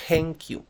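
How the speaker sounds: "thank you" starting with a puffed T; "thank you" with a breath after a hard T; aspirated T. Shown as a demonstration. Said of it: "Tampoco es una T aspirada".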